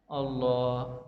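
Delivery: low, soft, drawn-out answer; hushed reply in a teaching role-play; reverent answer. Shown as a demonstration. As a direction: answer quietly, stretching the word. Answering as the taught child.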